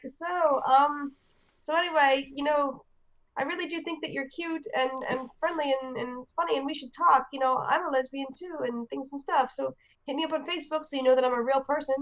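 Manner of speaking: nervous flirting. Retold or imitated. Retold nervous flirty message.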